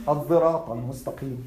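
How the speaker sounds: الصراط with a voiced "dh/z" in place of "s"; Al-Kisa'i "dh" reading. Shown as a demonstration. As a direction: pronounce الصراط as "adh-dhirat". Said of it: "this is the narration of Al-Kisa'i".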